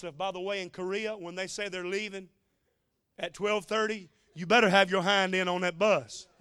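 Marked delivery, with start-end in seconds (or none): 4.3-6.3 mock stern warning. Joking warning about bus departure.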